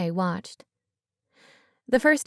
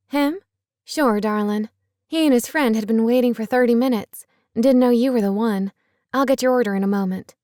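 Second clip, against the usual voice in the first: brisk, cheerful diner waitress; folksy waitress, louder and quick; 3 semitones higher, 5 dB louder than usual. Acted. Narrator voices waitress Sarah.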